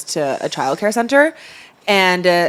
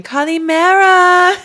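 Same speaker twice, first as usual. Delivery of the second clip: put-on high childlike greeting; 13 semitones higher, 6 dB louder, much slower than usual. Kids greeting in Greek.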